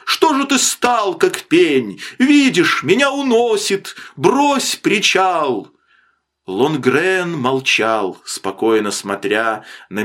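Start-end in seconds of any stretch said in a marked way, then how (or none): 0.1-5.7 high-pitched frantic pleading; terrified cry. A narrator's reading. Man being swept out to sea begs for a line, terrified cry. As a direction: plead in panic for the rope. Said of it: "закричал смертельно перепуганный Мэннерс".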